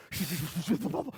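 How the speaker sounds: whooshing sound of an approaching bike; imitated bike noise. Imitating a friend coming up behind at full speed, whooshing. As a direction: mouth a soft, rushing whoosh. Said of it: "I hear someone".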